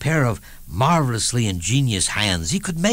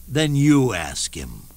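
sly comeback; slower than usual. Retold or imitated. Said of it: "I said".

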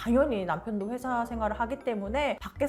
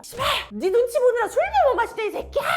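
high, loud acted drunken tirade; raging drunk cursing; 10 semitones higher, 6 dB louder than usual. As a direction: play the wife flying into a drunken rage. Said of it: "더 폭주하기 시작했습니다". (만취해 폭주하며 욕하는 흉내)

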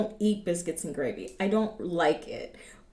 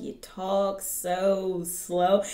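slow talk; 2 semitones lower, much slower than usual. Retold or imitated. California friends teasing her Southern talk, slowly drawn out. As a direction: drag each word out slowly. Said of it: "like, when you talk".

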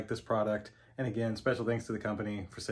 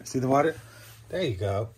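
pet talk; 3 semitones higher, 6 dB louder than usual. Real, not acted. Coaxing dog to drink.

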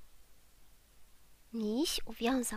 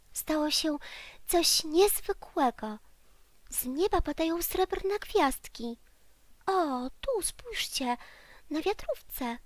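high, eager teddy bear wonder; excited little bear; 5 semitones higher, 4 dB louder than usual. Acted. Teddy bear excitedly shows friends the stars on his jacket. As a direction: share a marvel with friends.

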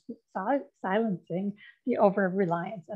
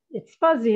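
fuzzy said louder with a falling tune; stressed fuzzy; 3 semitones higher, 6 dB louder than usual. Shown as a demonstration. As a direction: lean on the word fuzzy. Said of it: "fuzzy is the word the researchers use".

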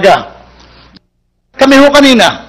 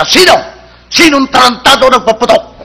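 tough demand; 3 semitones higher than usual. Acted. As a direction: demand to know who fired. Thug demands who fired.

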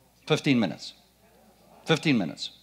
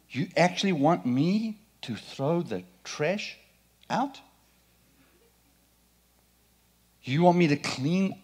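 mock whiny complaining; 2 semitones higher than usual. Preacher mimics a grumbling servant, whiny mock complaint. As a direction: play a put-upon servant balking at chores. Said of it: "she didn't say".

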